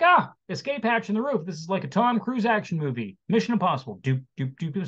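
playful joking, mock action-movie hype, hummed theme at the end; joking around. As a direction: crack jokes like it's a Tom Cruise movie. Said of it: "I am cracking jokes".

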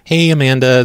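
usual speaking voice

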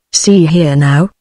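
slow, mildly stern warning; a hint of a stern host halting an intruder. Host confronting the camel in his hall, slow and mildly stern. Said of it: "said Mister Tate sternly".

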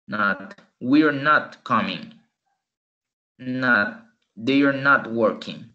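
slow drill, "not" said as "nat"; pronunciation drill. Shown as a demonstration. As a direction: model each line slowly, "not" like "nat". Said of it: "veamos un poco la pronunciación". (ejercicio lento, "not" pronunciado "nat")

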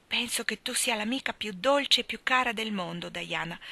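plain reading voice

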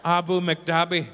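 slow, Irish-flavoured Abu McDabi; a hint of an Irish lilt on Abu McDabi; mock Irish. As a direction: Abu McDabi, said slowly as an Irish place name. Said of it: "I added the Mc to make it sound more local".

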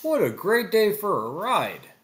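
Fred's cheerful line. A narrator's reading. Fred on a drive with the gang, cheerful. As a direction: sound pleased about an outing.

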